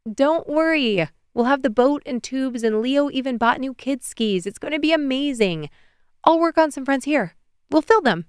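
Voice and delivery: high, lively reassuring voice; upbeat reassurance. Acted. Reassuring a worried Aylin about the lake week, upbeat. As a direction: brightly talk away the worry.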